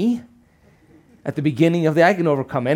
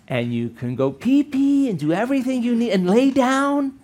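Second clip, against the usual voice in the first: slow, coaxing, like talking to a dog, rising higher toward the end; a mock pet owner; 4 semitones higher, slower than usual. Speaker orders his own body like a pet, coaxing. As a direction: coax the body to stay like a pet.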